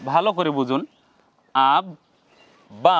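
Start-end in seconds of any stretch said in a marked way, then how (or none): 1.7-3.0 আব then বা, each said separately with a pause; teacher sounds out the pieces for viewers; split syllable demo. Shown as a demonstration. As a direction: spell out আব বা beat by beat. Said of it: "উচ্চারণ করছি".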